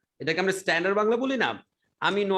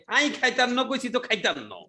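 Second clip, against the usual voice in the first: mock Noakhali dialect, pitched up; playful Noakhali accent demo; 5 semitones higher than usual. Shown as a demonstration. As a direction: show off the Noakhali way of saying it. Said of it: "সে স্টাইলে বাংলা বলছে".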